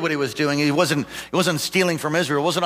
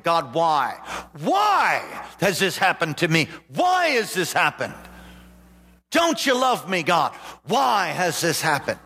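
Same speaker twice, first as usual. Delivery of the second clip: imitating despair; 3 semitones higher than usual. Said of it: "most normal things that we have all done".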